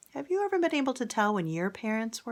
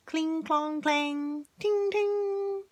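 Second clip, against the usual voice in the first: higher, lightly voiced clang sounds; sword clangs; 10 semitones higher, much slower than usual. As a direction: ring the swords out playfully. Sword clash sound effects.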